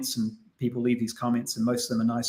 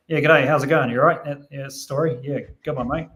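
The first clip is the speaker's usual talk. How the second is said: broad Kiwi accent. Shown as a demonstration. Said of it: "So it's like".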